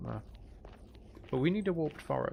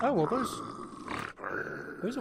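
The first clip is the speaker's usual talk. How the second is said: surprised; 11 semitones higher than usual. Real, not acted. Notices warped fungus.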